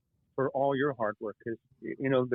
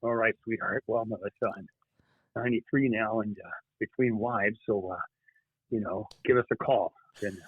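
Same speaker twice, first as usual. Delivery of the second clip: Clint Eastwood impression. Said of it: "fan of Clint Eastwood".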